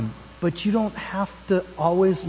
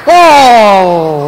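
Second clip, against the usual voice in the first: mock surprise; 4 semitones higher, 14 dB louder than usual. Magic trick cup reveal.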